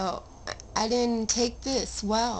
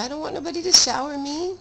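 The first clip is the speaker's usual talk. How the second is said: fast, higher and louder protest; emphatic outburst; 7 semitones higher, 6 dB louder, faster than usual. Real, not acted. Telling viewers about nurses, a fast loud protest. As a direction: blurt it out hotly.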